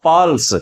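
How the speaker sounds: "पल्स" with the weight on प; stress on प. Shown as a demonstration. Teacher explaining which letter carries emphasis, stress on प in "पल्स". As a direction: lean on the opening प of "पल्स". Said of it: "पै पे बलाघात हो सकता है".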